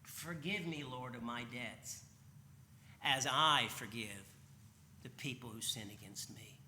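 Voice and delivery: slow, measured prayer with weighted phrases; deliberate model prayer. Shown as a demonstration. Preacher showing the congregation how to pray, slow deliberate prayer. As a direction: pray it slowly, pausing between phrases. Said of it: "say it this way".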